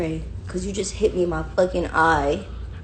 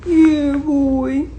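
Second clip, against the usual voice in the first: loud, high pet-hyping call; hyping up a puppy; excited hype; 8 semitones higher, 7 dB louder than usual. Real, not acted.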